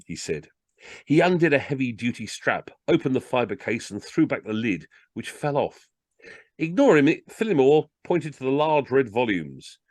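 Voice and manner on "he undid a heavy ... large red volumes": lively comic storytelling; story narration. A narrator's reading. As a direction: read it aloud like a funny tale. Reads a comic story aloud.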